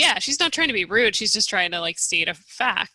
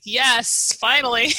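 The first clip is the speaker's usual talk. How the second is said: cheering; 4 semitones higher, 4 dB louder than usual. Retold or imitated. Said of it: "I'm like".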